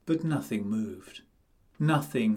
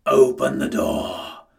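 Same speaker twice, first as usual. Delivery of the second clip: cried; 7 dB louder than usual. A narrator's reading. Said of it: "cried the wolf".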